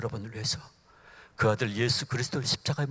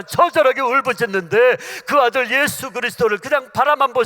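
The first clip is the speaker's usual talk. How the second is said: louder and louder, slowing into the cross; preaching at full force; 6 semitones higher, 12 dB louder than usual. Acted. Preacher rising before the congregation, building fervour. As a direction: build the sermon to a peak.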